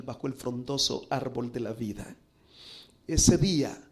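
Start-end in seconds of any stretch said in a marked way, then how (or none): 3.1-3.8 "Ese día" proclaimed louder, stress on "ese"; "Ese día" called out loud with a falling close; emphatic preaching. Acted. Preacher to congregation, "Ese día" proclaimed loudly.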